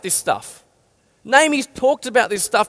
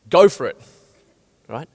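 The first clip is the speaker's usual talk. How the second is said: energetic go for it; 5 semitones lower than usual. Shown as a demonstration. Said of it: "now I'm gonna say this".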